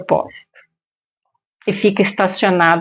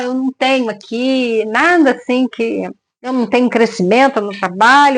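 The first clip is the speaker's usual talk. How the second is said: mock the endless job complaints, pitched up; whiny complaint; 2 semitones higher than usual. People complaining about their job.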